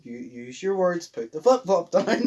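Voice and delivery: hammed-up calming of an angry mum; slowly begging her to drop the flip-flop; mock pleading.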